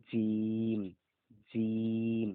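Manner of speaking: জিম with a hard, firm j; teacher demonstrating a firm জিম; firm jim. Shown as a demonstration. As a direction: say জিম strongly, a solid j. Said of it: "জিমের উচ্চারণ কিন্তু শক্ত করে হবে".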